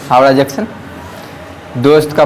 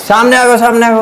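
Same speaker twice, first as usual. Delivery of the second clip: crowd shouting; 6 semitones higher than usual. Retold or imitated. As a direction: call out samne a go like a bus crowd.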